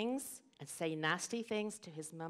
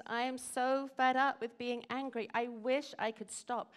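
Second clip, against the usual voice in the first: put-on higher, exasperated storybook child; fed-up boy; 5 semitones higher than usual. Simon tells his parents about his anger, fed up.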